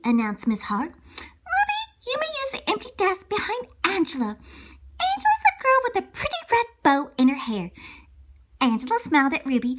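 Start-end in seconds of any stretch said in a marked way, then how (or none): 0.9-7.7 teacher voice. Acted. Teacher Miss Hart voiced.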